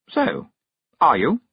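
high, pushy question; prying witch. A narrator's reading. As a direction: nudge her for an answer. Miss Tick prying.

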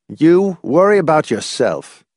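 high, husky, defensive retort. A narrator's reading. Laws rebuffing Hamilton's challenge, husky. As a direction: push it back huskily. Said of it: "he said huskily".

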